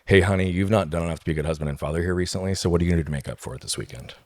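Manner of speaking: mock the reproach the way shame hears it; imitated accusing wife. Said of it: "cause me to hear this".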